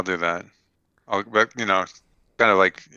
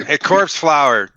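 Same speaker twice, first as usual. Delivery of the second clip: raised pitch, drawn-out call; 5 semitones higher, 4 dB louder than usual. Acted. Knight hailing a companion in the cave, calling out. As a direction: call out slowly at a higher pitch. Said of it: "I'm gonna call out".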